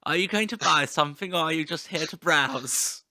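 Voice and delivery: hammed-up pushy salesman; pushy shopkeeper. Merch seller imitating himself as a pushy shop assistant. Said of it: "that person in shop that nobody likes".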